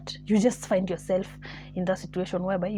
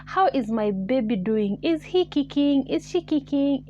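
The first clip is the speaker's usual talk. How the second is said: doting lover; 4 semitones higher, slower than usual. Retold or imitated. Voices a lover phoning sweetly.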